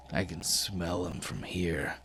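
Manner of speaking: slow, lingering delivery; drawn-out taunt. Acted. Grinning giant boy beside Thren, slow taunt. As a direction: stretch out the words, lingering on smell.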